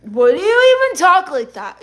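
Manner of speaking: high, swooping mock question; mimicking a questioner. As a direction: imitate an incredulous questioner, pitch soaring. Mimics viewer's question with pitch swoop.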